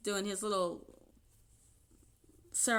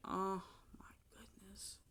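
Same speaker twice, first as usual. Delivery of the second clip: whispered under the breath; soft unvoiced whisper of dismay; whispered aside; 4 semitones lower, 13 dB quieter than usual. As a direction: mutter it to yourself in disbelief. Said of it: "I was like".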